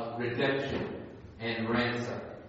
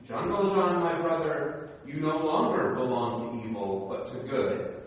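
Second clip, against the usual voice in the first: solemn. Acted. Bishop blessing the freed thief, lightly solemn. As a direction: give him your blessing solemnly. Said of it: "He resumed with solemnity".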